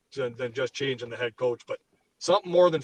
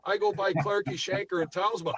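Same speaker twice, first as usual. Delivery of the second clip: heated, high-pitched exasperated rant; worked up; 6 semitones higher, 3 dB louder than usual. Real, not acted. Beer-league player fuming to co-hosts about three lazy Leafs, worked up. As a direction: rant in real indignation, pitch riding high. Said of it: "I'm getting a little worked up here".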